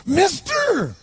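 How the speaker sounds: put-on high, loud, strained cry of a drunk man; bizarre drunk's voice. To a stranger passing by, a high strained cry. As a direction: call out like a wobbly street drunk. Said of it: "He had this really bizarre looking sounding voice".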